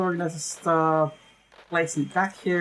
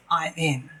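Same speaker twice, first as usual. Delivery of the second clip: hacker voice. Pretend. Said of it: "Hacker voice".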